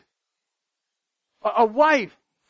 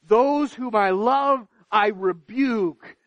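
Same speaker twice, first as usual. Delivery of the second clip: forceful proclamation; slower than usual. Shown as a demonstration. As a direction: preach it out to the whole room. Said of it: "preacher voicing God's words".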